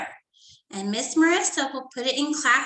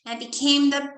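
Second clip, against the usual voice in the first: put-on reading to children; 3 semitones higher than usual. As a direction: read it like story time for little kids. Teacher reads story to class.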